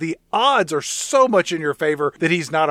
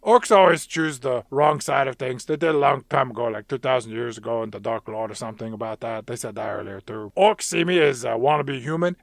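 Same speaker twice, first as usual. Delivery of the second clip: Nick the Orc; 4 semitones lower, 3 dB quieter than usual. Acted.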